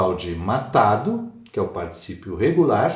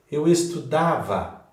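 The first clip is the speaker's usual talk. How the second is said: "estudava" slowed, with DA stressed; 4 semitones higher, slower than usual. Shown as a demonstration. Teacher showing stress leaving the root, DA stressed in "estudava". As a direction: lean on the DA in "estudava", slowly. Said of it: "a sílaba tônica foge".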